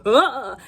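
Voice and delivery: mock startled yelp. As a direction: imitate a man crying out on turning round. Acting out his startled cry.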